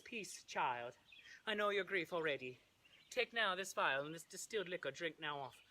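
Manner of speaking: put-on Italian accent drifting toward Swedish; lilting, botched Italian accent for a friar; attempted Italian accent. Friar Lawrence counsels Juliet in botched Italian accent. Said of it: "my Italian accent sounded Swedish".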